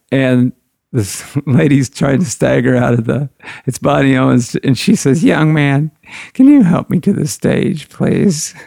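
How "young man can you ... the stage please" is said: a slightly higher, lightly voiced tipsy lady; tipsy lady asking. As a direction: politely ask to be helped to the stage, a little unsteady. A drunk singer asks for help.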